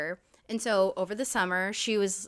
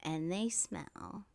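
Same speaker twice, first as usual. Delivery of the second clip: laughing; 3 dB louder, much slower than usual. Real, not acted. Teasing friend, giggling.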